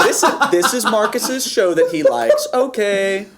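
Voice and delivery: slow, laughing imitation of patronizing approval; mock condescending. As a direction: parrot it back, drawn out and amused. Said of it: "that is so incredibly condescending".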